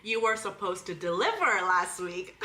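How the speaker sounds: put-on teasing copycat take on an American accent; mocking American accent. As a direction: parrot the words back in American. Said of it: "she's mocking you right now".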